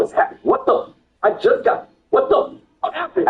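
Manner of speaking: high, breathy whisper of panic; panicked whisper. Retold or imitated. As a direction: gasp it out in retold panic. Retold panic finding bloody dogs.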